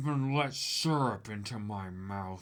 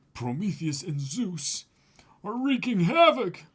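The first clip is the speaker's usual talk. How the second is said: dramatic reading; 5 semitones higher, 3 dB louder than usual. Acted. Reading manga dialogue dramatically.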